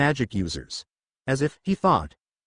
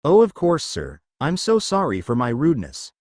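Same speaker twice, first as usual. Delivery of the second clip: mildly simpering apology; a hint of fawning sweetness. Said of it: "she simpered".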